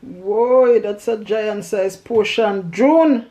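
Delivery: loud amazed exclaim; big wow at the portion; surprised. Real, not acted. Sees huge plate of food.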